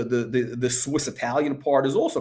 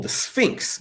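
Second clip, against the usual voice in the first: whispered; 7 semitones higher than usual. Real, not acted. Recalling gun name, whispered.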